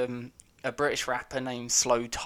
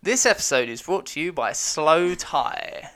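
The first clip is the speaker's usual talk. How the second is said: higher, louder mock ad read; mock sponsor announcer; 4 semitones higher, 6 dB louder than usual. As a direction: announce a fake sponsor with showy emphasis.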